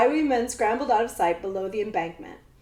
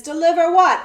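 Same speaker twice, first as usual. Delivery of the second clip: exclaiming; 7 semitones higher, 10 dB louder than usual. A narrator's reading. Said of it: "exclaimed Captain Itz".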